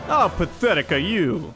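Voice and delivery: mock the enemy with scorn; Liquid Snake voice. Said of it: "I already kinda did give him a liquid voice".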